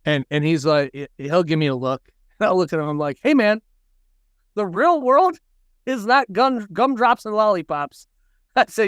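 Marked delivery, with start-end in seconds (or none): 3.2-8.1 mock dad lecture. Dad lecturing son about real world.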